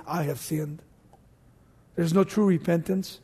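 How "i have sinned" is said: mock hollow confession. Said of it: "they always say".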